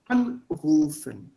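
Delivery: ANrufen, prefix stressed and drawn out; stress on AN, slow. Shown as a demonstration. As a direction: lean on AN in Anrufen slowly. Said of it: "on the prefix". (langsam, Betonung auf AN in Anrufen)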